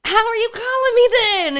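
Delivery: lightly mocking high voice; quoting herself in a silly high voice. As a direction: squeak the question up high. Asking friend on phone.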